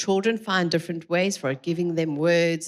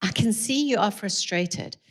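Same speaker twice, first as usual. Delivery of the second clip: gentle naming; 3 semitones higher than usual. Shown as a demonstration. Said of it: "you would say to your child".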